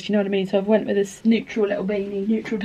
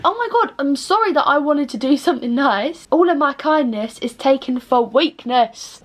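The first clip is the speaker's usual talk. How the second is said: much higher, sarcastic self-pity; mock wounded; 3 semitones higher than usual. Mocking her own reply to commenters, high sarcastic whine. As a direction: lay the martyrdom on thick, pitched up. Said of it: "And I'm like".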